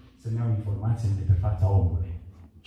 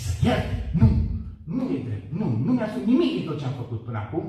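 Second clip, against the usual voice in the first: high, heated protest blaming everyone; defiant outburst; 5 semitones higher than usual. Retold or imitated. Man arguing with God that others are guilty, in a high heated voice. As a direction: throw the blame at them, rising.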